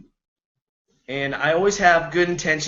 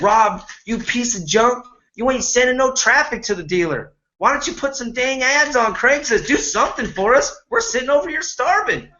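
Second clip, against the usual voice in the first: complaining; 5 semitones higher than usual. Retold or imitated. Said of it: "we complained at the dealer when I said".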